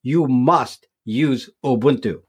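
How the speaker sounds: slow, deliberate advice with weight on must; stress on must. Real, not acted. Telling newcomers which distribution, deliberately stressing must. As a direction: spell it out slowly, leaning on must. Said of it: "I use the word must here".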